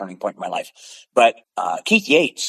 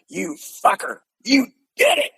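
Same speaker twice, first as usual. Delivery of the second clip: excited yell; 8 semitones higher than usual. Retold or imitated. Big guy celebrating the win.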